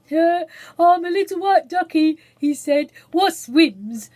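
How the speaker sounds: a tiny boy playing at being a duck; little child voice.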